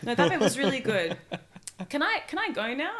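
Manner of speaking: lightly voiced, nervous fake politeness through a laugh; uncomfortable girl backstage. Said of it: "Going like this, going".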